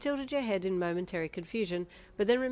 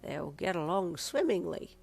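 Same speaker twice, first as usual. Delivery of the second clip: knowing; slower than usual. Acted. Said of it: "Pa said knowingly".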